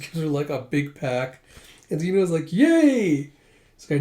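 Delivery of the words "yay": very high, loud squeal of joy; delighted cheer. Acted. Zeno cheering over the honey manju, high and loud. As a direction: squeal like a kid given candy. Zeno gets a pack of sweets.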